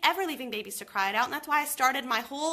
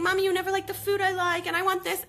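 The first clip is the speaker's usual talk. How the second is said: put-on higher, louder whiny kid voice; imitating angry child; 9 semitones higher, 5 dB louder than usual. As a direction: mimic a cross five-year-old complaining. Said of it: "he was angry and saying".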